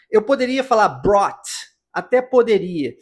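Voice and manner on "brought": "brought" with a crisp T released at the end; "brought" ending in an audible T; sounded final T. Shown as a demonstration. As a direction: hit the final T of "brought" like a cymbal tick. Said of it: "com esse som do T".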